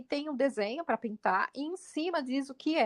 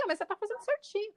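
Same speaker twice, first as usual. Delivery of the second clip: reassuring adult; 8 semitones higher, 3 dB quieter, faster than usual. Retold or imitated. Reassuring the child.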